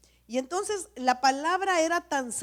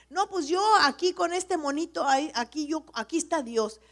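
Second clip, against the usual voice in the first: mocking self-made believer; 4 semitones higher, 5 dB louder than usual. Mocking people making their own god.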